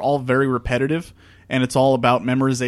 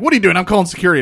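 alarmed guard voice; 6 semitones higher, 6 dB louder, much faster than usual. Retold or imitated. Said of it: "She's like".

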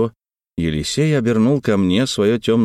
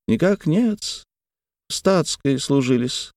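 servant's deferential reply; 6 semitones higher, slower than usual. A narrator's reading. Servant answering.

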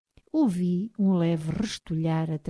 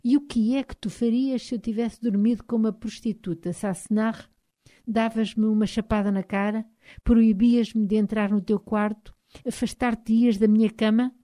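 husband pressing her, a little higher and louder; lightly voiced angry husband; 4 semitones higher, 6 dB louder than usual. A narrator's reading. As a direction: fire off the questions at her, heated. Husband's heated questions.

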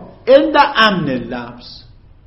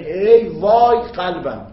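ای وای; 3 dB louder, much slower than usual. Shown as a demonstration. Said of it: "یعنی".

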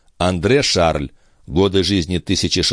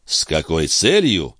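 echoed question. Acted. Бальзамо задумчиво повторяет вопрос Филиппа.

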